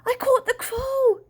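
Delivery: high, drawn-out triumphant shout; loud, high-pitched crowing announcement; excited yell. A narrator's reading. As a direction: yell the news, slow and high. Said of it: "yelled Dad".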